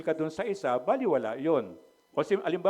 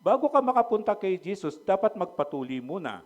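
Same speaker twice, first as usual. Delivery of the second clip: strict Judaizer demand; 5 semitones higher, 5 dB louder than usual. Retold or imitated. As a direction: insist like a legalist teacher. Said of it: "Sabi niya". (ginagaya ang mahigpit na Judaizer, mas malakas at mabagal)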